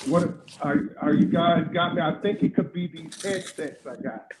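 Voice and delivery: muffled bass only. Real, not acted. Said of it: "It hasn't changed".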